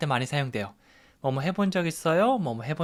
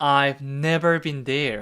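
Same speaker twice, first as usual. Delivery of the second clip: the word "never" strongly stressed; 3 dB louder than usual. In an English speaking lesson, saying the answer with stress on never. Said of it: "Never. 여기 강세를 주면서 말씀해 주시면 됩니다".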